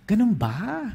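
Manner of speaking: high rising disbelief; incredulous question. Retold or imitated. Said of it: "Sabi ko". (hindi makapaniwalang tanong)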